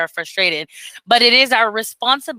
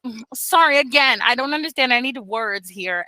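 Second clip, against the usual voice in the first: gently apologetic, slowing at the end; mother calmly asking her son to use words; patient mom. Retold or imitated. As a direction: patiently ask a toddler for words. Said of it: "And then I'm like".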